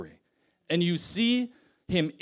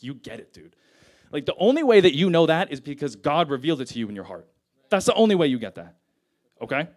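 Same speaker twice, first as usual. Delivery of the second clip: fast, louder, eager Jesus praising Peter; elated; 5 dB louder, faster than usual. Retold or imitated. Jesus tells Peter he gets it, elated and fast. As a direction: rush it out, thrilled for him. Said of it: "Jesus is so, like, elated".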